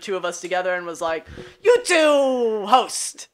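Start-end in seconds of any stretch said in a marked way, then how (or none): 1.6-3.3 slow, drawn-out impression of the host; lightly voiced host barking orders; a hint of Jody drawing it out. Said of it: "Is that your Jody impression?".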